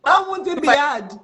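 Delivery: loud, high, drawn-out mock outburst; incredulous retort. Retorting to a recruiter who says hiring is hard, acted incredulous. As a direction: throw it back loudly in disbelief.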